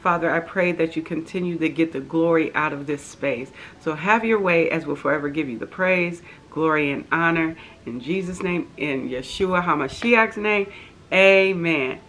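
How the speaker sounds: soft, earnest prayer voice. Real, not acted. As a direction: pray it humbly and quietly. Leads an opening prayer.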